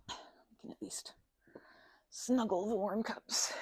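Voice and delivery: slow cozy whisper. Real, not acted. To the viewer, holding warm cups, slow whisper. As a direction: hush it, snuggling warm cups.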